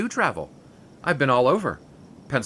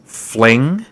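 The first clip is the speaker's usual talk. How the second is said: "Fling?" shouted much louder, rising; 11 dB louder than usual. Acted. Ex-lover hurt by the word fling, shouting it back. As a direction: bark the word back in outrage. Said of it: "There's no need to shout".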